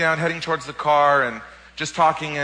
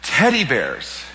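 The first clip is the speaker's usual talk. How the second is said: slow, deliberate divine words; patient, unhurried voice of God; slow voice of the Lord; much slower than usual. Retold or imitated. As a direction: let each word land slowly. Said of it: "I heard".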